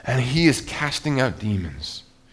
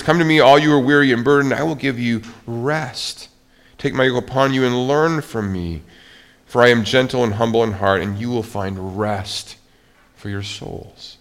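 scripture reading. Acted. Reads Jesus' words aloud.

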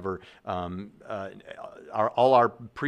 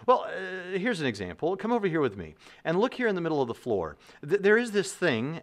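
higher, eager-to-show delivery; a touch of mouse character, pitched up; lightly voiced mouse; 7 semitones higher than usual. Tyler mouse leads Matt mouse to his example, lightly acted and higher. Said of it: "the Tyler mouse says".

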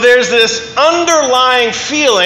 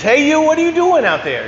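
put-on higher-pitched challenge in Maine accent; acted calling out; 8 semitones higher than usual. Farmer to trespassing hunter in the backyard, calling out. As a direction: call out to a stranger, lightly acted.

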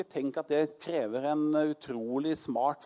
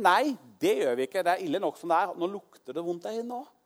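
Martha refusing; 4 semitones higher, 4 dB louder than usual. Retold or imitated.

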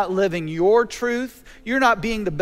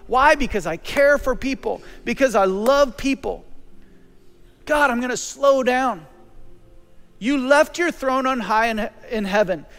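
prayer. Acted. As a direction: pray it aloud, unhurried and sincere. Prays aloud to God.

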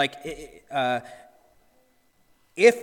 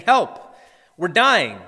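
mock panicked scream; 2 semitones higher, 8 dB louder, much slower than usual. Disciples shouting to Jesus over wind and waves, panicked yell. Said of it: "probably screaming over the sound of the wind".

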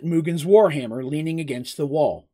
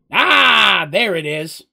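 cry of discovery; 3 semitones higher, 8 dB louder, much slower than usual. A narrator's reading. Mugen finds the tube in his bag, exclaiming. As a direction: burst out on finding it.

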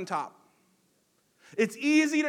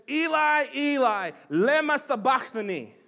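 crying out loud and high to God; 5 semitones higher, 5 dB louder than usual. Retold or imitated. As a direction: call out at the top of your lungs. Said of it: "called out with a loud voice".

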